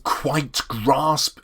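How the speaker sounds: equal stress on both "quite" and "grasp"; two stressed syllables. Shown as a demonstration. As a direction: land firmly on each word of "quite grasp". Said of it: "have to stress when you read it".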